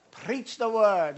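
put-on the quote again, slow and chuckling, without the Scottish accent; giving up on the accent through a laugh; laughing retake. Pastor repeating the quote after joking, slow and laughing. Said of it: "he says".

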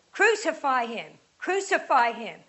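loud, shouted demand to crucify; crowd shout. Acted. Chief priests shouting at Pilate, loud angry mob cry.

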